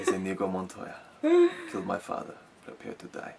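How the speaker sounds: lightly voiced swordsman's vow; a hint of the avenging swordsman, half laughing; Inigo Montoya quote. Host quoting the film's famous line, lightly acted swordsman. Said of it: "I just remember his line now".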